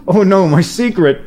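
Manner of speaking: high cyborg woman voice; half robot voice. Pretend. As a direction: voice changer stuck on female. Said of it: "I've been using a voice changer".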